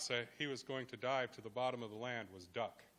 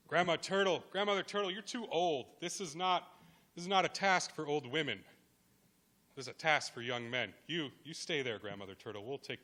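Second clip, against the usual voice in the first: loud dismissive; 3 semitones higher, 6 dB louder than usual. Acted. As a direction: brush her off loudly, talking down. Young creatures dismiss the grandmother.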